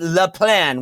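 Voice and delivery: "Le Plan" set off as if in air quotes; mock emphasis on "Le Plan"; exaggerated emphasis. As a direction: lean on "Le Plan" as a quoted phrase. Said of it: "with an exaggerated emphasis and air quotes".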